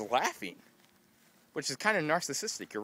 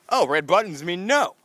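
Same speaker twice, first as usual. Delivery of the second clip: mock eager thought; 6 semitones higher, 8 dB louder than usual. Acting out his own thought.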